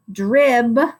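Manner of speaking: "Dribble" split into drib, pause, bul; sounding out. Shown as a demonstration. Teacher shows friends the two syllables, sounding out. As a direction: break "Dribble" in two with a clear gap. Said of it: "So sound out drib".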